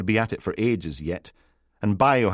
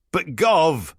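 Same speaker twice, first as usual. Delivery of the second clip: whiny protest; 8 semitones higher, 4 dB louder than usual. Acted. Biohazard whines to his boss.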